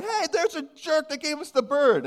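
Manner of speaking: high, mildly voiced gossiping churchgoer; hammed-up pointing-out voice; lightly voiced congregant calling him out; mock churchgoer. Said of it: "they're saying".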